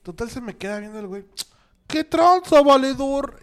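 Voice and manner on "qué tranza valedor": much higher, much louder cholo street greeting; cholo accent. Retold or imitated. Imitating the cholo who stopped him on the street, loud cholo accent. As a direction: bark it out like a Mexico City cholo. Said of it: "hasta te sale el acento".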